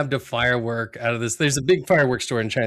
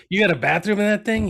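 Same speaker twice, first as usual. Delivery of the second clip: higher, louder Homer asking; 8 semitones higher, 4 dB louder, faster than usual. Retold or imitated. Cohost retells Homer asking vendor, mock Homer voice. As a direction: voice Homer pleading for a bathroom. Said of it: "he goes".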